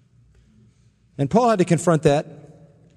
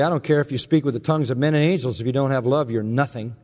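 sarcastic; 3 semitones lower, faster than usual. Retold or imitated. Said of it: "sort of sarcastically".

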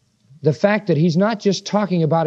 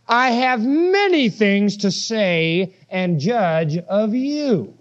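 slow reading; much slower than usual. Shown as a demonstration. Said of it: "See it in verse twenty-six".

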